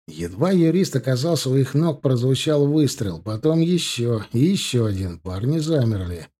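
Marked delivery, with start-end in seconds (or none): none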